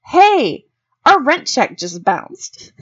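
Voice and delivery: high, tearful wail; hammed-up crying over the rent; mock crying. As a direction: sob out the bad news, half-joking. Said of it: "was like".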